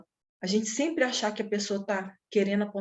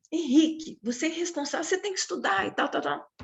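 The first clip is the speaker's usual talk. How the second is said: higher, hurried mock lecture; nagging scolding; 5 semitones higher than usual. Mother scolding her son Henrique about studying, hurried and higher. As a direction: rattle off the old scolding, a bit higher and faster. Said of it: "eu tinha muita mania de falar assim".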